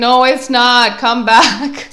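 high, loud mock insistence; insistent salesperson. Salesperson calling back a shopper who refused, high and loud. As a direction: call after a customer who is getting away. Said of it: "they're like".

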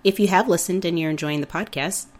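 hoarse from a cold; talking through a sore throat; sick voice. Real, not acted. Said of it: "Forgive my voice, I'm a little sick".

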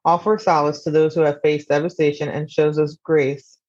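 measured book-summary narration; scripted synopsis read. Acted. Podcaster introducing a memoir to listeners, scripted narration. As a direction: read it out as a composed, even synopsis.

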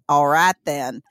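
lightly hammed Missouri militia leader; thick Missouri accent. CSA leader agreeing with the Taliban, Missouri accent. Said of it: "in a thick Missouri accent".

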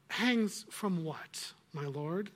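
drawn-out, mocking question; slow teasing witch. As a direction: let it hang, sly and slow. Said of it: "said the witch".

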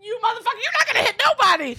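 very high, squeaky mock taunt; hammed-up comic jeer; imagined trolling. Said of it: "being like".

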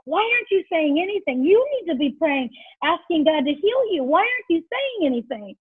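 retold exasperation. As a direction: imitate a leader's frustrated questioning. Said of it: "I was getting so angry".

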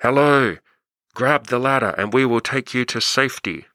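a light mock shout down from the helicopter; megaphone yell. Helicopter crew calling to the man on the roof, mock megaphone shout. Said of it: "and they yell out".

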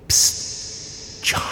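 sharp urgent hiss of a whisper; fierce whisper. Acted. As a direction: whisper it hard and fast. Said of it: "The fierce whisper assaulted my senses".

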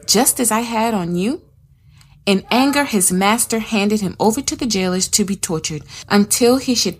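steady, measured reading of the parable; scripture reading. Acted. Reading the parable to her study viewers, measured storytelling. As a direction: read it like a Bible story to the group.

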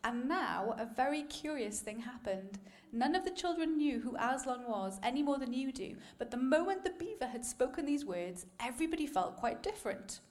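story reading. Acted. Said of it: "let me share a quick quote".

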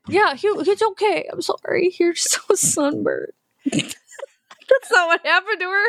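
slow, laughing teasing. Real, not acted. Teasing a sunburned actress, slow laughter. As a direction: giggle through it, slowly.

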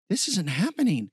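a touch of panic; disbelieving panic. Acted. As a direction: think it aloud in rising disbelief. Hero panics mid battle.

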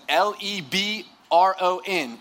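slow, drawn-out sassy spelling; exaggerated sass. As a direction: spell it out slowly, letter by letter, with sass. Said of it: "it wasn't that much sass".

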